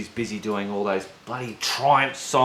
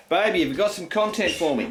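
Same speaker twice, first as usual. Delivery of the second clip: loud; 6 semitones higher, faster than usual. Real, not acted. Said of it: "Very loud".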